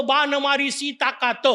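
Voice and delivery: "ताकात" run as one word without the nasal; confident misreading. Retold or imitated. Preacher mimics a preacher misreading the verse, confident. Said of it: "एकाने दणकून सांगितलं".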